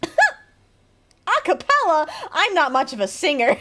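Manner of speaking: can't keep a straight face; giggling through the NPC line; laughing through it. Acted. NPC line read while laughing.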